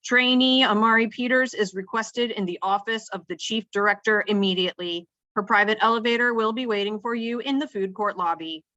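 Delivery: formal summons over the intercom; booming intercom announcement. A narrator's reading. Chief summons trainee to her office, announcing. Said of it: "Chief Crow's voice booms over the intercom".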